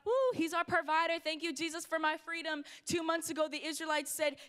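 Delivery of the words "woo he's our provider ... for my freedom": mock praise. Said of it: "we praised God".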